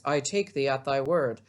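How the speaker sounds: a touch of earnest stage lover; Romeo. Acted. Teacher reading Romeo's reply to Juliet, lightly acted. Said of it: "my best Romeo voice".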